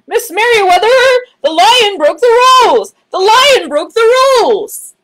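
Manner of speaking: high loud urgent call. Acted. Clerk calling for the head librarian, high and loud. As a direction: call ahead down the hall. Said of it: "he called as he walked".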